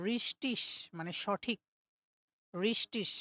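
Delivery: German ending -ig spoken ish. Shown as a demonstration. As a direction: say রিস-টিস with the final g as ish. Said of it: "ইসের মতো উচ্চারণ হবে".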